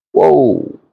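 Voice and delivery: a high, startled gasp of wonder; amazed whoa. Retold or imitated. Remembering the half-court shot, a high amazed whoa. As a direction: let it burst out at the shot.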